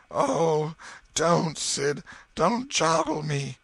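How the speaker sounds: high, loud, drawn-out pained moan. A narrator's reading. Tom faking illness to his brother, moaning. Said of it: "Tom moaned out".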